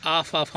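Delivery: "आफ, आफ" with a long aa and f; common reading. Shown as a demonstration. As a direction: say "आफ, आफ" ending on a clear f. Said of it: "हम लोग पढ़ते हैं हमेशा".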